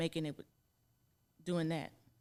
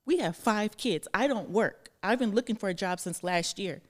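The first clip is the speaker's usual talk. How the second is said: retold outburst; 7 dB louder than usual. Retelling what she told his mom, she raises her voice, emphatic. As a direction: hammer each point at her. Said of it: "I might have said to her".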